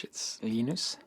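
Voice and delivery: "Linus" said the Swedish way, LEE-noos with long ee; Swedish pronunciation. Shown as a demonstration. Linus telling the interviewer his name in Swedish, LEE-noos. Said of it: "when I speak Swedish".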